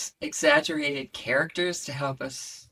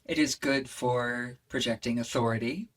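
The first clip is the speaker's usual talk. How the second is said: grounded, slightly lowered speaking voice; earth voice; 2 semitones lower than usual. Shown as a demonstration. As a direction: settle the voice down into the body, calm and authoritative. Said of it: "this is my earth voice".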